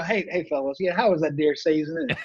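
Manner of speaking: put-on folksy Arkansas accent, friendly; a good-old-boy Arkansas accent. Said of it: "I'm talking like this here".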